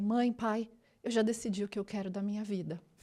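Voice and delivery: mock dead-serious, solemn, very serious delivery. Retelling announcing a life decision to parents as a child: imitating own very serious tone. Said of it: "eu desci as escadas super séria".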